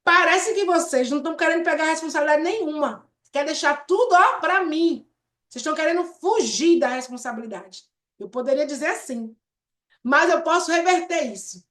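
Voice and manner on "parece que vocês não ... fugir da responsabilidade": accusing tone. Shown as a demonstration. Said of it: "em vez de eu dizer assim".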